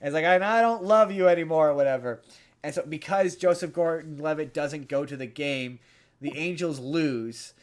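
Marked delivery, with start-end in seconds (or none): 0.2-1.7 louder Southern twang, declaring; a loud Southern dad line; Southern accent. Retold or imitated. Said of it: "giving him a southern accent".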